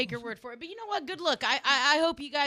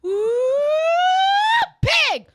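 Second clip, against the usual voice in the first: yell; 14 dB louder than usual. Acted. Yelling the cheer.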